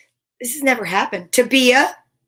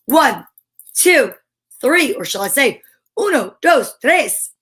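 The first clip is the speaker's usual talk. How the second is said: excited countdown; 4 dB louder, slower than usual. Real, not acted. Counting up to the reveal.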